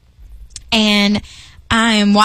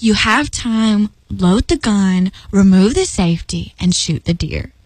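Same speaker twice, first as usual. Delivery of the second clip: calm instruction; 3 semitones lower than usual. Retold or imitated. God calmly instructing her.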